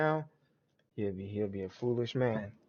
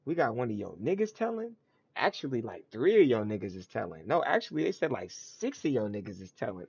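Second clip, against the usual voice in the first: lightly acted prosecutor piling up witnesses; mock prosecutor; 3 dB louder than usual. Prosecution telling the defendant his crew is informing, mock insistent. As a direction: punch up the count, mock insistent. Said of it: "So it's like".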